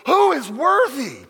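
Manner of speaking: loud, slow, ringing call; throng's cry. Retold or imitated. The heavenly throng crying out, loud and drawn out. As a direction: cry it out like a great crowd in heaven.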